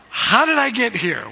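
a hammed-up panicked cry; mock panic. Reliving fear atop the platform.

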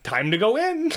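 high, voiced as the dog; dog's inner voice. Narrator voicing her friend's dog, high dog voice. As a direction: give the dog a chirpy high voice. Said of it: "Frankie's like".

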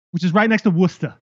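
Boston "Worcester", two syllables, r dropped; understated Boston accent. Shown as a demonstration. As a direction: say the town like a local Bostonian. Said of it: "you're doing great at the accent".

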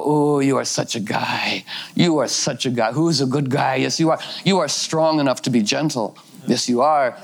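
doting pet talk. Retold or imitated. Owner sweet-talking her bullying cat, doting praise.

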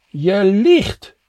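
loud, high shout to a driver; calling out. A narrator's reading. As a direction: shout a warning towards the car. Jopie gestures, calls to departing car.

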